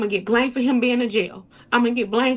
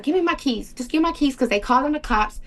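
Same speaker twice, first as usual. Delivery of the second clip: urgent plea; 4 semitones higher than usual. Retold or imitated. Begging boyfriend for keys, cops coming.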